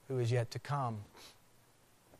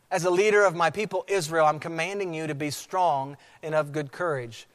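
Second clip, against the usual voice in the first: raised, forceful voice of a commander; emphatic charge; 3 semitones higher, 5 dB louder than usual. Acted. God commissioning Joshua as leader, emphatic charge. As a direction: drive each promise home, slowing at the end.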